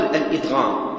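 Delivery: الإدغام with a light single dal, al-idghām. Shown as a demonstration. Teacher giving the other form, الإدغام with single dal. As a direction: say الإدغام without doubling the d. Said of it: "والكوفيون يقولون الإدغام".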